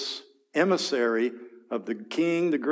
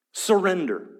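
higher mocking demand; taunting demand; 6 semitones higher, 3 dB louder than usual. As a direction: sneer the word surrender. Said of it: "here's this taunting arrogance".

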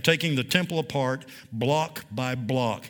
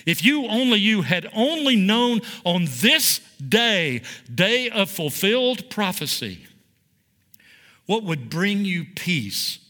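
higher and slow, leaning on "you" and "this day"; emphatic lament; 4 semitones higher than usual. Shown as a demonstration. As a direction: plead "if you, only you" with weight. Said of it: "a powerful emphatic statement".

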